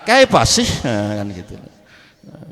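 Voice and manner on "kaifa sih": Arabic ending in a Jepara sih, much higher; high mock Jepara Javanese question; Jepara Javanese accent. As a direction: imitate a Jepara speaker, pitch up. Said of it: "Kalau Jepara".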